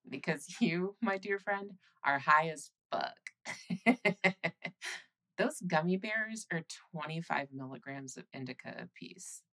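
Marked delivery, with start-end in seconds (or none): 0.1-4.4 laughing. Acted. Teasing partner about being high.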